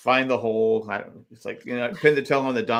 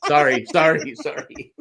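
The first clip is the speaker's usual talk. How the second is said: walking on hot sand. Retold or imitated. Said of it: "It's just like".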